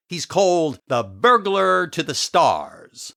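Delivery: slow, savoring dramatic announcement; grand reveal. Acted. Jack recalls the celebrity thief's title, grandly impressed. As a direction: draw out the title with awe.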